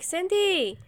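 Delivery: high, slow, drawn-out sing-song; mock-sweet horror movie line; imitating movie character. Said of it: "And then she's like".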